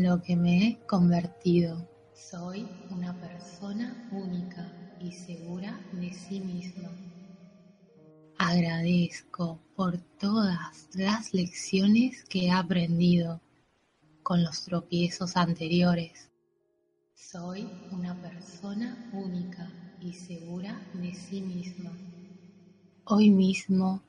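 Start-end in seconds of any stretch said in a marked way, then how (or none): 2.1-6.9 voz lejana y muy tenue; eco de fondo. Acted. Afirmación repetida como eco de fondo. 17.1-21.9 voz lejana y muy tenue; eco de fondo. Acted. Afirmación repetida como eco de fondo.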